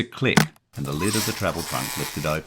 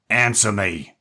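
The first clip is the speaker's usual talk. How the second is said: gangster yell; 5 semitones higher, 7 dB louder, slower than usual. A narrator's reading. Jerry yells at boy.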